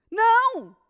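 sharp preacher's no; emphatic shout. Real, not acted. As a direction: slam the door on that lie. Preacher rebuts loudly.

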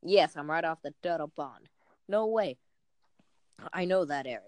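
lightly voiced comic-book detective; a hint of old-time detective. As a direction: read it like an old cartoon detective. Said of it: "like the old detective guy".

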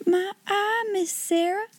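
high-pitched, awed gasp; gasped amazement. A narrator's reading. Becky amazed at Sarah's imagined hall, gasped amazement. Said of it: "gasped Becky again".

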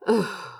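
long weary sigh out; resigned sigh. A narrator's reading. Crow sighs, giving in to Azra. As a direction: let out a resigned breath. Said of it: "heaved a resigned sigh".

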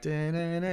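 mock soundtrack noise; imitated film music. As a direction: mimic a dramatic movie cue. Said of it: "It was literally like".

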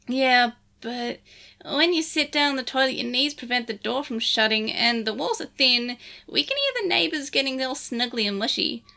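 lightly voiced Digimon sidekick; Lugumon voice. Lugumon character voice.

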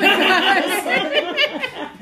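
high, loud mock screaming; imitated raging scream. Dad resumes screaming at his kid, hammed-up loud rage. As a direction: burst back into a dad's screaming rant. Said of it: "And then continued".

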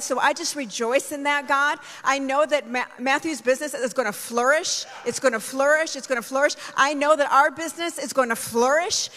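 rising, fervent praise prayer. Real, not acted. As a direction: pray it out with building fervour. Praying aloud in praise.

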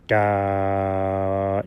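long, low drawn-out duh; dopey duh. Pretend. Dog opening his mouth as his friend gives orders, dopey low duh. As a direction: let a low duh hang. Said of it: "I wasn't saying duh".

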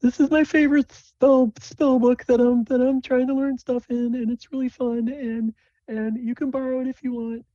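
put-on high friendly girlish voice; eager young girl voice. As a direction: play a sweet, excitable young mage. GM voicing a character showing spells.

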